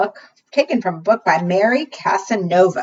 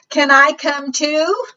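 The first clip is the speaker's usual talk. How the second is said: much higher, pleading bird voice; hopeful loon; 8 semitones higher, 3 dB louder, slower than usual. Acted. Loon begging to ride in the canoe, high and eager. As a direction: chirp the question hopefully.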